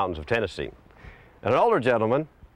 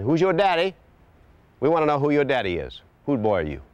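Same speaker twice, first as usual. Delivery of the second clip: mocking taunt; 8 semitones higher than usual. Townsfolk jeering the fatherless boy, high and mocking.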